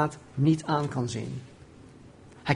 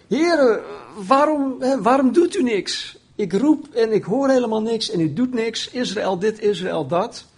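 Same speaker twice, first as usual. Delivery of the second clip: higher-pitched, exasperated plea; acted complaint; 6 semitones higher than usual. Habakuk complaining to God that he does nothing, exasperated complaint. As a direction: complain upward in a raised, insistent voice. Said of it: "het antwoord op zijn geklaag".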